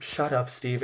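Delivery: tired shush. Retold or imitated. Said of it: "Clark is just".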